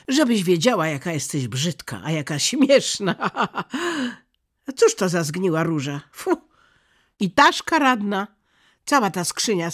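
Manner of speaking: loud, high, scornful taunting with a laugh; spiteful mocking boy. A narrator's reading. Kai cruelly mocking Gerda and her roses, loud scorn. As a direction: sneer at everything she loves.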